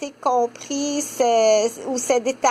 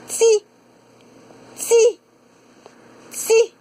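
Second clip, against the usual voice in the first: put-on high, louder toddler repeating « Ti »; toddler syllable; 9 semitones higher, 4 dB louder, much slower than usual. Shown as a demonstration. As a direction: call out « Ti » like a small child. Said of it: "elle prononce ti". (« Ti » répété, voix aiguë d'enfant)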